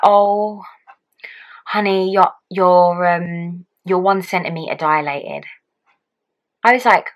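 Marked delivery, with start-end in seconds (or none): 0.0-5.5 gentle sympathy. Retold or imitated. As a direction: let her down gently like a kind midwife. Midwife gently breaking bad news.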